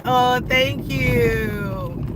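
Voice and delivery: drawn-out, touched thank-you; slow flattered thanks. Retold or imitated. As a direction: say it slowly, flattered. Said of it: "And I was like".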